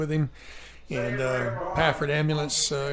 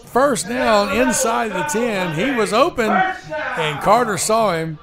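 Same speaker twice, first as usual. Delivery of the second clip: excited; 5 semitones higher, 4 dB louder than usual. Real, not acted. Praising the receiver.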